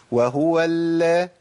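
long-held thin lam in وهو ال; doubled light lam. Shown as a demonstration. Teacher isolates the doubled letter, light held lam. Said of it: "اللام مشددة".

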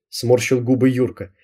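ordinary delivery

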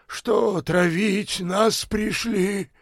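выше и медленно; недоверчиво возмущайся; возмущённый бомж. A narrator's reading. (бомж возмущается врачам, медленно)

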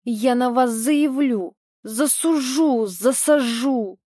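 slow, puffing angry threats; winded man blustering threats; huffing threats. Acted. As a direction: huff out each threat. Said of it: "пыхтел он".

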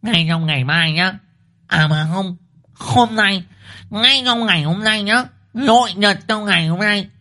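high-pitched, relentless wifely ultimatum; fierce scolding wife. A narrator's reading. Wife orders husband to find the runaway, fierce scolding. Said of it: "Thị Liên trừng mắt chỉ tay vào mặt chồng".

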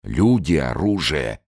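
bitter mocking snap; a commander angrily repeating her words; angry outburst. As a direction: throw her words back at her. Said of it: "зло выкрикнул Юлиус".

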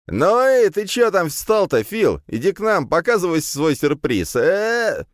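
put-on high, loud, slow drunk call; drunken hollering. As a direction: call out across the street. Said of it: "замахал Эдик".

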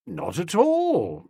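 slow, smooth suave reply; a touch of suave ease. A narrator's reading. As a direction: brush it off with suavity. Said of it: "I replied with equal suavity".

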